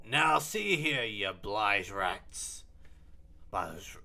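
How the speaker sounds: loud, slow indignant tirade; angry scolding. Acted. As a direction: tell off the rats, drawn out. Marco scolds the cleaners.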